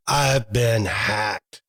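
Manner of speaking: slow, grave realization; mock-tragic slow reveal; dramatic dread. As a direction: let it sink in slowly like doom. Retelling discovering the fraud.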